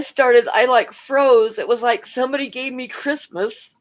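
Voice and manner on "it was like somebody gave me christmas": laughing through words. Real, not acted. Narrator breaking up mid-story.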